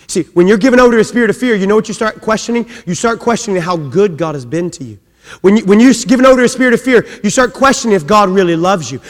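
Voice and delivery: high, loud, fast preaching build; full-force preaching. Acted. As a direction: drive the point home to the church.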